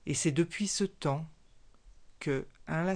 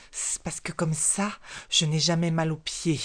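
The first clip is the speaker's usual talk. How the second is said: irritated; 3 dB louder than usual. Acted. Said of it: "s'énerva le reptile".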